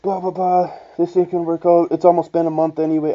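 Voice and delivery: whiny parody of the ex; mocking girlfriend. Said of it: "she's like".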